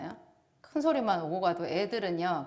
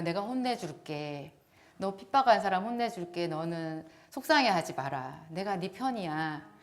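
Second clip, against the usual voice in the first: reassuring God; 4 semitones lower, 5 dB quieter than usual. Retold or imitated. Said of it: "그렇게 얘기하시는 거예요".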